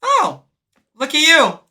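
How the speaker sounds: high sarcastic sing-song; mock teasing. Joseph mocking her sweeping, high and teasing. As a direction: tease him with a high mocking lilt. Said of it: "he goes".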